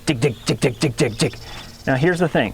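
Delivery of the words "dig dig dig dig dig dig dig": voiced "dig" repeated quickly; rhythmic "dig, dig, dig"; dig syllables. Shown as a demonstration. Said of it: "now we're gonna go".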